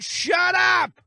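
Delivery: high mock shout; hammed-up squeaky shout; mock yell. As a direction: bark it in a put-on voice. Host mock-yells at caller.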